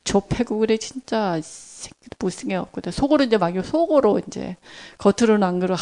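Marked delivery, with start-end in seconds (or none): 0.0-2.7 soft inner muttering; muttered curse. Retold or imitated. Preacher recalling silent curses, muttered softly. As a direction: grumble it under your breath. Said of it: "속으로 제 전공이 욕하는 거".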